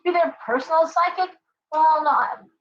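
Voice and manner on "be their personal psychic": much higher, outraged disbelief; a friend scoffing at the caller's cheek; indignant retort. Retold or imitated. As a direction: fire it back, scandalized and shrill-high. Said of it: "I'm like".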